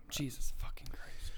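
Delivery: whispered in disbelief; shocked whisper. Real, not acted. Co-host hearing the death toll, whispered shock. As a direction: breathe it out, stunned.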